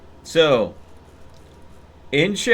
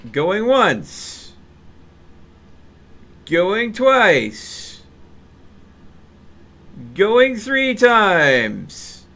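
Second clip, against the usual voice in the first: rising, drawn-out auctioneer call, slower at the end; mock auctioneer; 4 semitones higher, much slower than usual. Streamer closing the chat vote, mock auctioneer. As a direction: close the vote like a playful auction.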